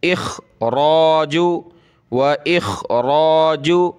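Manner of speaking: slow chanted इखराजु with a rasped "kh" from the throat; throaty heavy khaa. Shown as a demonstration. Teacher modelling recitation, throaty khaa in इखराजु. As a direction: pull the "kh" in इखराजु thickly from the throat. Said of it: "खा को गले से निकालें".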